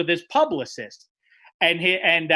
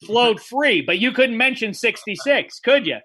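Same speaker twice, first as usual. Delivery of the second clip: heated confrontation; 4 semitones higher, 4 dB louder than usual. Retold or imitated. Confronting Gretzky in green room.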